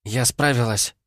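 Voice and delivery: put-on a young woman glad she made it; Vanda's relieved voice. A narrator's reading. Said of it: "Тихий голос Ванды".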